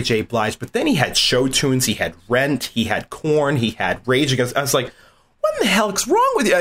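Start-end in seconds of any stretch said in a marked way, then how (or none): 5.4-6.5 high, fast incredulous outburst; disbelief. Retold or imitated. Reacting to the roommate's odd music collection, fast and high. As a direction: fire it off fast in mock shock.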